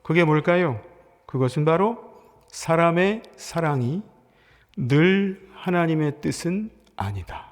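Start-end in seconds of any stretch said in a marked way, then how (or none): 2.5-7.5 slow emphatic. Shown as a demonstration. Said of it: "이거 기억하세요".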